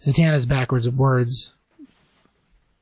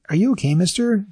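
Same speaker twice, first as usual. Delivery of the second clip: high, lightly voiced little girl; 7 semitones higher than usual. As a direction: ask sweetly like a small child. Little girl quoted in retelling.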